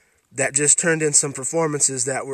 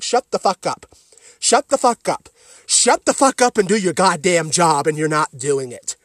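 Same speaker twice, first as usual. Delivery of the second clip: angry rant; 5 dB louder than usual. Pretend. Yelling at Jared Leto.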